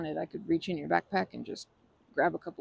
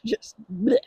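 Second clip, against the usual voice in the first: laughing bleh; 5 semitones higher, 11 dB louder than usual. Real, not acted. Laughing disgust sound.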